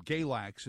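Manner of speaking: Galax said as "GAY-lacks"; pronounced as spelled. Shown as a demonstration. Host showing a town name as spelled, "Galax" as GAY-lacks. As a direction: say "Galax" with a long "ay" first. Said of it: "is pronounced and spelled Galax".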